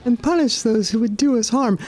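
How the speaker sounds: solemn pleading goddess, lightly voiced; a hint of a grave divine mother. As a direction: ask for help in a lofty goddess voice. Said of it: "I can't believe I'm doing these voices".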